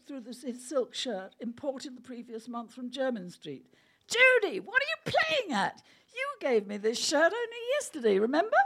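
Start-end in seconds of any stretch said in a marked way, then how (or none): 4.1-8.6 higher, louder, panicky pleading; high alarmed protest. Acted. Griffin pleading with Judy, high and panicky. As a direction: squeak out the protest.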